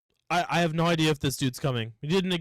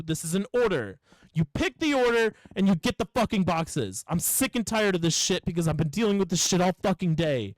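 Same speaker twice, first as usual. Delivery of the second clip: retold exasperated tirade, only mildly raised; exasperated rant. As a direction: lay down the law to a customer, fed up. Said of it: "yell at customers though".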